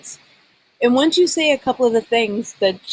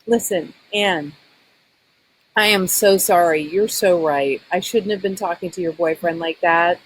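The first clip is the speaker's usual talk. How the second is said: sincere apology. Acted. Acting the daughter's sincere apology.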